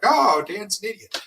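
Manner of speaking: high, slow, drawn-out mock jeer; mocking viewer. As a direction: put on a silly high heckler voice. Mocks a judging viewer.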